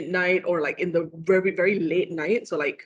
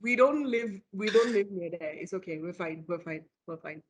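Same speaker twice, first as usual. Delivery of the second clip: reassuring; 5 dB quieter than usual. Real, not acted. Soothing a scared friend.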